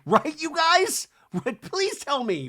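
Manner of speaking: high mock-desperate plea; pleading. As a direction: beg them to agree, pitched right up. Pleading with listeners for agreement.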